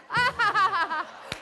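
high, loud burst of laughter. Acted. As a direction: burst out laughing after the punchline. Punchline after furious note. (carcajada fuerte y aguda)

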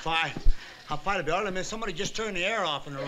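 puffing between words after dancing; winded, catching his breath. Real, not acted. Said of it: "I'm just a little out of breath".

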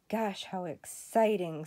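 slow, deadpan fake enthusiasm; sarcastic, unexcited gosh. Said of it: "in a very unexcited voice".

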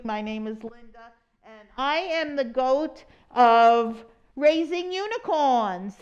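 silly example. Shown as a demonstration. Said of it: "That's just an example".

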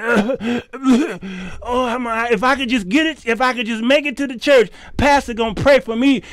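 mock groaning, hurried complaint; hammed-up ailing member, groaning and rushing; struggling churchgoer. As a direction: imitate someone straining just to make it.

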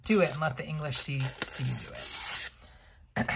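quick then whispered mock Scottish line; half-hearted Braveheart accent, trailing off; lightly Scottish movie quote; Mel Gibson Braveheart again. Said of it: "Mel Gibson in Braveheart".

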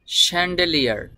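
চ্যান্ডেলিয়ার begun with a sh sound, shen-de-li-ar; correct pronunciation. Shown as a demonstration. Teacher modelling the word for learners, careful sh start. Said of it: "এই শব্দটির উচ্চারণ হবে চ্যান্ডেলিয়ার".

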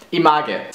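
Image as "ee-mah-geh"; hard g and sounded e in Image; totally German. Shown as a demonstration. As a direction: Image read as a German word. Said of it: "I'll pronounce them totally German".

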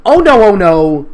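loud, slow dramatic "oh no"; mock dread. Real, not acted. Reader dreading the next chapter. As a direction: moan it in exaggerated dread.

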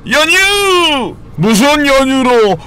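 high drawn-out pun yell; playful shout. Real, not acted. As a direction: belt out the pun slowly. (높게 늘여 외치기)

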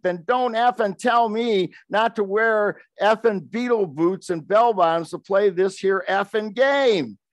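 a mock-furious tough-guy rant; greaser's rant. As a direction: chew them out like a riled-up greaser. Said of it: "He said".

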